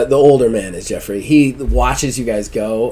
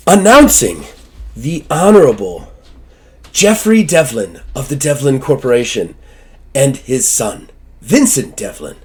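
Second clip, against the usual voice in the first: formal announcement. Acted. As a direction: announce the guests grandly, rising. Servant announces the guests.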